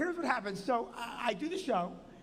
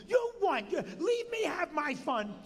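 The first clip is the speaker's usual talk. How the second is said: annoyed wife; 7 semitones higher than usual. Retold or imitated. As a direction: imitate the wife pushing him away from the machine. Wife mocked scolding husband.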